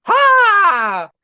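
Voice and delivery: sharp, high, loud crow caw; loud high caw voiced as a crow. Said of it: "it looks at you and goes".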